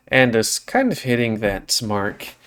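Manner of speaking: ordinary delivery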